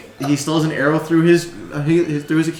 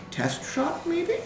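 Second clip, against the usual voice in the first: small, very high, soft voice; hopeful gnome; 7 dB quieter, much slower than usual. Acted. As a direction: float a sly suggestion up high, softly. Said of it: "Than looks at you and goes".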